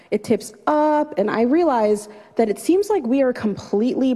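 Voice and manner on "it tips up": rising suspense. Retold or imitated. Raft repeatedly tipping in her story.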